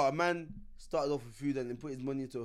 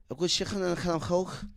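put-on Irish brogue, throaty k sounds; mock Irish accent. Performing the line for a laughing friend, mock Irish accent. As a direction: show off your pretend Irish. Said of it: "my Irish accent was on point".

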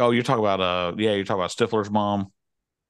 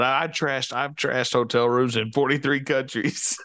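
imitated rock star boast, pitched up; slow, higher mimicry of a rocker; a rock singer; 5 semitones higher, slower than usual. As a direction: quote him slowly in a raised voice. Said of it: "then the singer's like".

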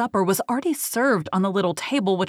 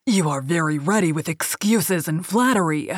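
angry cry. Acted. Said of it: "he cried".

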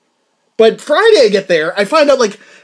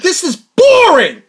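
bored; 9 semitones higher, 4 dB louder, slower than usual. Retold or imitated. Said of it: "I'm like".

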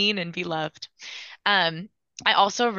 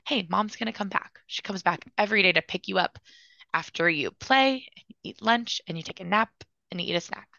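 put-on softer, gentle promise to a small child; calm him, mom is coming back; reassuring a child; 3 dB quieter than usual.

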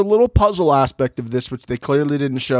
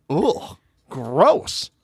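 annoyed ugh. Retold or imitated. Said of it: "He's looking at it like".

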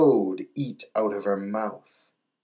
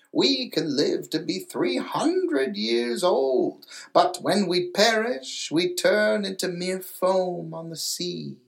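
put-on lightly raised, solemn old grandmother; 6 semitones higher than usual. Grandmother explaining souls to the little mermaid, lightly voiced and solemn.

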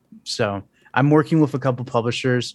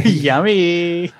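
sarcastic, laughing; 5 semitones higher, 4 dB louder than usual. Acted. Echoing sarcastic yummy.

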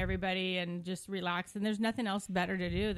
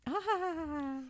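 high, forced stripper laugh; fake laugh; 8 semitones higher, 4 dB quieter than usual. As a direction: pretend to giggle. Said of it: "pretend to be like".

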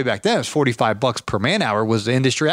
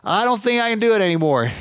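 imitating old man; 7 semitones higher than usual. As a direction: play the tired old neighbour. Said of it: "And he's like".

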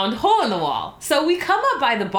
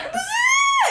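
high nervous squeal. Retold or imitated. Panicking as friend says your turn.

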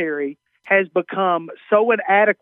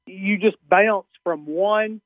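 "bounce" in a Southern accent, vowel drawn out; slow Southern vowel on "bounce"; slower than usual. Real, not acted. Comedian answering the radio host, Southern accent on "bounce". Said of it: "that's a little Southern accent for bounce".

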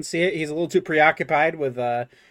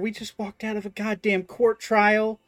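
scolding mother; 6 semitones higher than usual. Acted.

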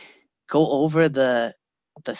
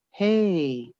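softer, laid-back greeting; a touch of mellow aunt; really mellow; 2 semitones higher, 4 dB quieter than usual. Retold or imitated. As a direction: greet him slow and calm. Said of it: "really mellow".

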